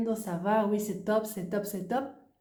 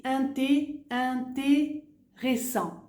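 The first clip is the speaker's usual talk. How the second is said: very slow, syllables separated; slow demo word; 4 semitones higher, much slower than usual. Shown as a demonstration. Teacher showing the syllable break, very slow. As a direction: stretch each syllable out clearly. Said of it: "¿ves?".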